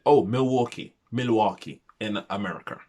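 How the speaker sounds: badly faked American accent; shocking American accent. Vlogger naming where the family lives, badly faked American accent. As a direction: have a poor go at an American accent. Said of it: "that accent was so shocking".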